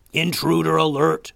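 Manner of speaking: loud, high robot screech; alarm shout. A narrator's reading. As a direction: shriek the alarm. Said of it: "screeched a hulking blue robot".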